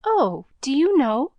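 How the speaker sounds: put-on a girl pleading with the newsboy, eagerly; beseeching. A narrator's reading. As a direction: beg him to be sure, hopeful. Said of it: "besought Pollyanna".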